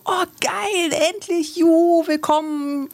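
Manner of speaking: imitated jubilant welcome cries; mock jubilant crowd. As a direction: play the overjoyed stranger welcoming everyone. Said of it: "alle anderen waren noch so".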